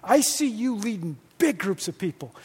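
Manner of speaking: soft, sincere encouragement; encouraging. Shown as a demonstration. Pastor showing how to speak leadership into someone, tender. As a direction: lean in and call the leader up, softly. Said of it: "uh, you go".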